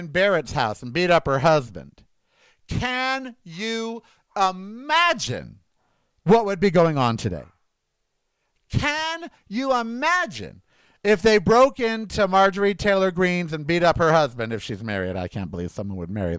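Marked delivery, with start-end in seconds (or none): 2.7-7.4 incredulous, very slow and drawn out, pitched up; slow, indignant rhetorical question; angry. Real, not acted. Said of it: "I'm too angry about what happened today". 8.7-13.7 angry. Real, not acted. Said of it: "I'm too angry about what happened today".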